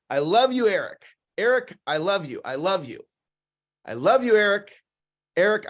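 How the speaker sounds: earnest, unhurried affection to oneself; sincere. Shown as a demonstration. Man to himself in the mirror, sincere. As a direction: say it like you mean it, to your own reflection. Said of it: "make eye contact with yourself and say".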